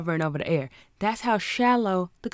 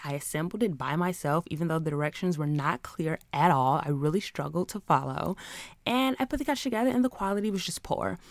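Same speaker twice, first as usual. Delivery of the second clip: lightly voiced polite Karen complaint; a hint of a prim customer complaining to customer service; mock-polite Karen on the phone. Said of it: "turn on my Karen voice like".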